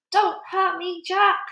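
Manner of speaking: high, pleading yell; yelled plea. A narrator's reading. Giant pleading with Jack, yelling. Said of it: "he yelled".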